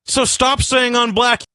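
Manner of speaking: high, slow, fed-up command; exasperated demand. Real, not acted. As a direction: draw it out like a last plea. Ending rant at fans.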